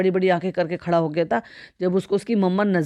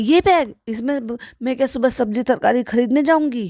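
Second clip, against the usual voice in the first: acted talking while laughing, higher in pitch; 5 semitones higher than usual. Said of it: "हंस के कहती हैं".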